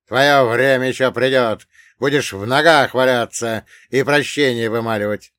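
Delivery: loud vengeful warning; angry threat. Acted. Gunman threatening the dwarf he holds, loud threat.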